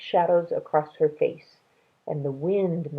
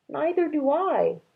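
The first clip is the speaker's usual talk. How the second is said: despairing reply; 10 semitones higher than usual. A narrator's reading. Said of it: "Ma said, crying in despair".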